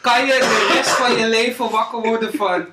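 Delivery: laughter breaking through the question; fighting back giggles; trying not to laugh. Real, not acted. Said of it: "ik moet niet lachen".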